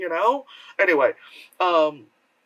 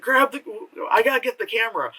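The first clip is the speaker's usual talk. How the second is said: mock frantic cameraman; 6 semitones higher, faster than usual. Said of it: "the guy's like".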